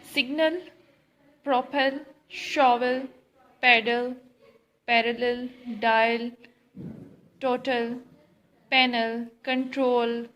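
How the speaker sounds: word list read out, each word set apart; dictation-style word list; reading words aloud. Shown as a demonstration. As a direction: say each word clearly on its own, with pauses. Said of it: "Say these words aloud".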